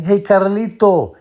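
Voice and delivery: put-on slow, high, loud Puerto Rican Latino accent. Vlogger imitating Luis Guzman, loud slow Latino accent. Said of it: "speaks in that heavy Latino accent".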